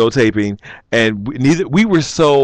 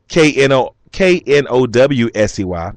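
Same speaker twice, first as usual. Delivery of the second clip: spelled out letter by letter. Shown as a demonstration. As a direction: spell it out, one letter at a time. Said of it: "'cause I'm nosy".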